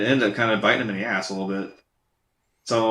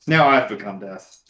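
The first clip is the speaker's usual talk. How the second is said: slow, dark mock Oppenheimer line; mock ominous; 4 semitones lower, slower than usual. Quoting Oppenheimer in a slow ominous voice. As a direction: intone it like a doomed prophet.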